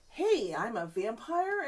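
weirdly flat vampire. Retold or imitated. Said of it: "a weirdly flat".

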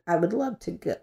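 emotional crack in the voice. Real, not acted. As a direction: voice cracks on the words. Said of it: "Ooh, my voice just cracked a little bit".

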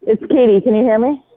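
caller on a speakerphone; distant voice through the phone; phone speaker. Real, not acted. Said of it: "I don't think you're on speaker".

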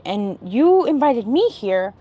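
retold slow, pointed accusation; drawn-out defensive comeback. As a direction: throw it back at them, mildly aggressive. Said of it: "defensive and aggressive".

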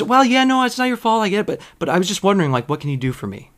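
a hammed-up wheedling caller; whiny customer. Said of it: "And he goes".

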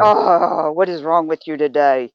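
a touch of scolding disappointment; shaming tone. Shown as a demonstration. Coach demonstrating a shaming reproach, mildly scolding. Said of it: "it's your tone".

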